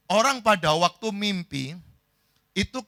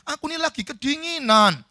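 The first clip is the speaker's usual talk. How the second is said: high, louder whine; protesting complaint; 10 semitones higher, 5 dB louder than usual. Acted. Sleeper insisting to friend he is freezing, complaining. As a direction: complain with the pitch lifted high.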